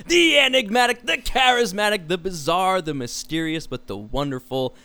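rising hype announcer build. Acted. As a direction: sell each title like a big intro. Hyping cohost like announcer.

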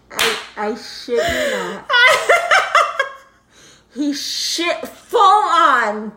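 high, slow, laughing through it; can barely get it out for laughing; laughing disbelief. Real, not acted. Mom losing it while telling the punchline.

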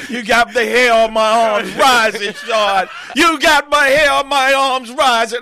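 thrilled. Real, not acted. Host thrilled by the story.

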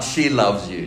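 reserved, understated She loves you; British understatement. Shown as a demonstration. Preacher contrasting the understated British lyric. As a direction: toss it off with British restraint. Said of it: "British understatement in that song".

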